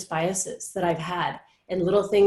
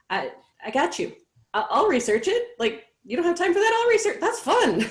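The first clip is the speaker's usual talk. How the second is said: excited friend; 11 semitones higher than usual. Retold or imitated. Friend eagerly offering to plan trip.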